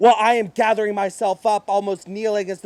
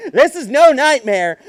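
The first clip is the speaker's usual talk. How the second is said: manic; 3 semitones higher, 5 dB louder than usual. Acted. Mad laughter.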